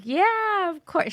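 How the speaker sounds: high, sweetly obliging reply; retold gracious agreement. Retold star gladly agreeing.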